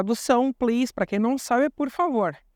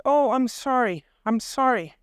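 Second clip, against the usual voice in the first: polite Canadian apology. Retold or imitated. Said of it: "o canadense".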